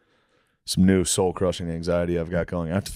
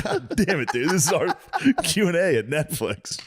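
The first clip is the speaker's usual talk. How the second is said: retold exasperation; 10 semitones higher than usual. Retold exasperation at castmate's panic.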